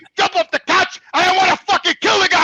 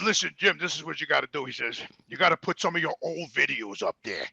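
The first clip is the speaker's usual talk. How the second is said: put-on young trainer voice; 13 semitones lower, 12 dB quieter than usual.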